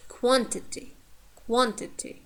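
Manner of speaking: careful "quantity", stress on "quan"; teacher's "quantity" with a strong first syllable. Shown as a demonstration. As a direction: hit the start of "quantity", light middle "ti". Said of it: "The first syllable is stressed".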